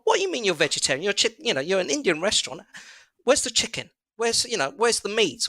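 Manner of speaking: high, indignant disbelief; retelling a baffled diner's outraged question; incredulous customer. Retold or imitated. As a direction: demand to know where the meat is, retold.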